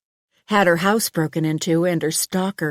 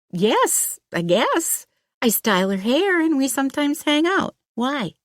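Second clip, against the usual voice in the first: put-on higher, hesitant young woman voice; an uneasy hairdresser, caught off guard; nervous young woman; 10 semitones higher than usual.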